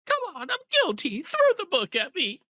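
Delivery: Ron's eager confession. Acted. Voicing Ron in a let's-play.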